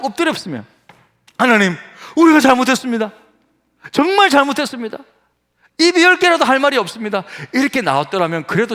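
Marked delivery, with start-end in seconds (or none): 1.4-7.2 high, earnest acted plea for forgiveness; pleading confession. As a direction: beg God's pardon with raised pitch. Imagined repentant plea to God. (높은 목소리로 간절히 회개하듯)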